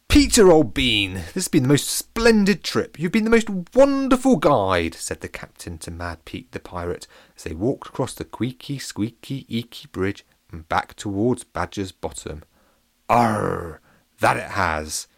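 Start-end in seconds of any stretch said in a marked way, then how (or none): 0.1-4.9 high, loud posh pancake voice; jolly posh captain, pitched well up. Acted. Captain thanks the pirate, high and posh. 13.1-15.1 lightly voiced gruff pirate; a hint of pirate growl. Pirate agrees with the captain, lightly piratey.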